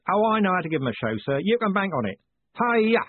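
high, quick boast rising to a shout; eager coachman. Acted. Coachman urging on his horses, high excited voice.

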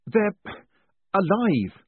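high, loud, breathless alarm; panicked gasp. A narrator's reading. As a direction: gasp it out in shock. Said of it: "he gasped".

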